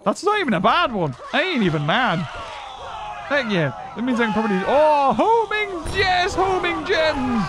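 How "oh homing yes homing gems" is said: high, drawn-out excited cry; delighted cheer. Real, not acted. Gamer gets homing gems, delighted drawn-out cheer. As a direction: celebrate with stretched, raised words.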